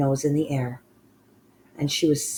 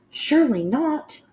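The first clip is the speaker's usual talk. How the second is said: high, louder protest; shouted; 12 semitones higher, 6 dB louder than usual. Acted. The other witches shout back in disbelief. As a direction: fling the denial out, high. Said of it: "the others shouted".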